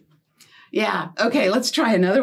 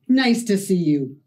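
a lightly voiced puppet dog greeting; 4 semitones lower than usual. Storyteller voicing the puppet dog for the kids, lightly. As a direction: give the dog a small different voice.

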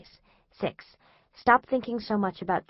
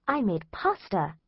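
slow, mild imitation of mom; a light touch of a cheerful mother; mom proudly announcing. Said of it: "she says".

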